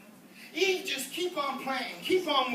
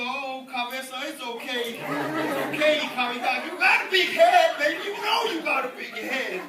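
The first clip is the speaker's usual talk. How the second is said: mock soothing mother, then louder; comforting mama; 5 dB louder than usual. A mother soothing her crying son, mock comfort. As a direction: coo over the boy, then blurt it out. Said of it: "the mama come over and she go".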